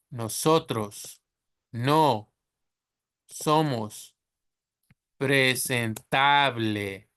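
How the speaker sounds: presentable said the Spanish way, slow, syllable by syllable; slow teacher dictation in Spanish; slow Spanish reading. Shown as a demonstration. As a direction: model the sentence slowly for learners. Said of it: "read them with the Spanish".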